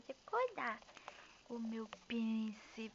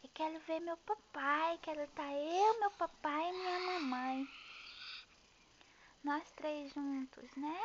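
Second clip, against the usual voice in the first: put-on speaking as the baby; 3 semitones higher than usual. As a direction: voice the baby asking for daddy. Mom voices baby speaking to papai.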